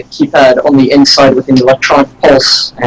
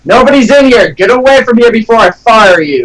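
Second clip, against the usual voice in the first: impersonating McMillan; 6 semitones higher than usual. Acted. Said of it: "impersonation of him".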